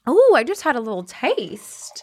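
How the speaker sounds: hushed whisper after a sip. Real, not acted. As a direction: breathe it out in a whisper. Whispering after sipping wine.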